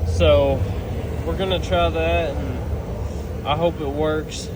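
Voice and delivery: speaking while freezing in the cold. Real, not acted. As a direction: talk through numb, frozen lips. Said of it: "It's freezing out here, can't feel anything".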